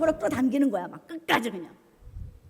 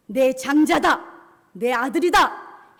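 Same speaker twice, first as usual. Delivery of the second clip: loud, forceful proclamation; booming, emphatic declaration; God's thundering claim; 8 dB louder, slower than usual. Acted. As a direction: shout each phrase as a divine claim. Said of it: "하나님은 호통을 치시는 거예요".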